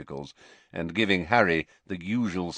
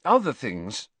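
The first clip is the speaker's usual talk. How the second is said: higher, faltering repeat of OTHER THINGS; faltering excuse; 5 semitones higher, 3 dB louder than usual. A narrator's reading. Pupil runs out of excuses before headmaster, falteringly. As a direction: let the excuse peter out, pitched up. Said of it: "he said, a little desperately".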